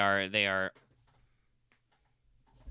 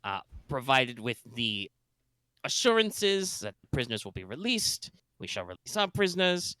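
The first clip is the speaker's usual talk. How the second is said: put-on space German accent. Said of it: "My, my space German accent".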